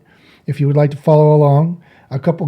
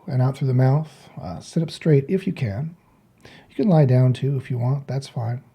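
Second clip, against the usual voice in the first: softer, calm instructing voice; guided meditation; 7 dB quieter than usual. Real, not acted. Meditation teacher guiding listeners to breathe out, softly guiding. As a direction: talk them gently into breathing.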